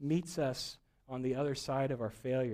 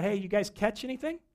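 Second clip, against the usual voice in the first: higher-pitched hail across the water; raised, carrying voice; calling out; 7 semitones higher, 4 dB louder than usual. Retold or imitated. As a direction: call out a casual question to people far off. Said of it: "the voice calls out".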